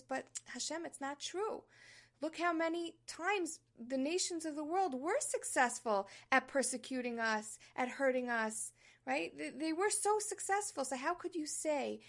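indignant, rising challenge to God; protesting objection. Retold or imitated. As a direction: complain with disbelief, pitch climbing. Voices the doubter's objection.

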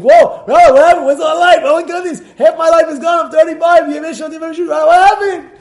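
high, loud, panicked outburst; alarmed. Retold or imitated. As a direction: cry out in alarm. Shocked man at thirty-five.

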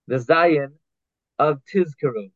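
Zayin with a buzzing Z in Tizkeru; clear Z sound. Shown as a demonstration. Teacher to students, sounding the Z. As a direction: press the Z of Tizkeru. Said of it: "You need to z-, lahatiz the".

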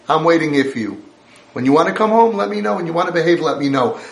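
a lightly voiced stern father laying down the rules. Imagined God scolding his exiled children, lightly stern. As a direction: scold them like a parent who holds all the power. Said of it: "I would have thought that Hashem".

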